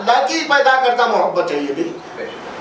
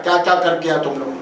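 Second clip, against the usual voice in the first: lower, quick demanding boss voice; mock Satan questioning; 6 semitones lower, faster than usual. Satan grilling his minions after the day, lower and quick. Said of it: "اپنے چیلے چپاٹوں سے interview لیتا ہے".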